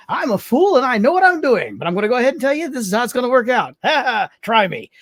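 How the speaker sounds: hammed-up tough guy talking fast; cocky contestant. Contestant boasting to the producers, mock-cocky and loud. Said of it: "you hear the guy comes and goes".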